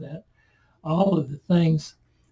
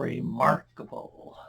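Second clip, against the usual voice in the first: "remarkable" whispered slowly; hushed amazement; 4 dB quieter, slower than usual. Acted. Preacher rephrasing the healed man's answer, "remarkable" in hushed amazement. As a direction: draw out "remarkable" in a slow, voiceless hush.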